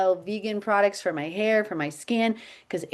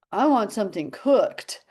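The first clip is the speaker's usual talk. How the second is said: put-on quivering child. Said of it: "his little lips started quivering".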